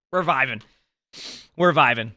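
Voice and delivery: giggling it out; laughing. Real, not acted. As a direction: laugh breaking into the words. Laughs while talking.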